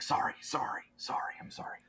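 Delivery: hushed, repeated apology in character; whispered apology. Acted. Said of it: "And then he's like".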